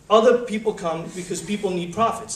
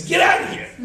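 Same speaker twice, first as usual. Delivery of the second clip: mock angry yell; 11 semitones higher, 6 dB louder than usual. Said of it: "Abraham gets upset".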